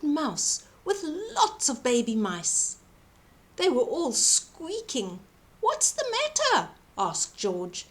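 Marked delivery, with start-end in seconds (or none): 5.6-6.7 high, gentle caring question; concerned giant. A narrator's reading. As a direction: ask kindly, voice lifted high. George asks the mice.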